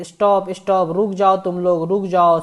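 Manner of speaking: half-hearted storybook roar of "stop"; mild mock roar. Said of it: "शेर जो है पूरा चिल्ला के बोला".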